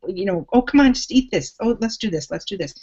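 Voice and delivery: hammed-up pestering voice of unsupportive people; nagging naysayers. Coach mimicking friends who tempt a dieter, mock whiny. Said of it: "people around you who are saying".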